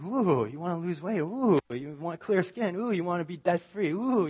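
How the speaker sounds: lightly voiced infomercial huckster, cooing each ooh; a hint of a late-night salesman teasing the buyer; infomercial pitchman. Preacher mimics idols as a late-night infomercial seller. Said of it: "like a late night infomercial kind of business".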